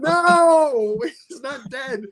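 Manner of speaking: very high exclamation that dissolves into laughter; laughing mock protest. Wife protesting the condolence flowers, high and laughing. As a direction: imitate the wife insisting through giggles. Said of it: "And my wife's like".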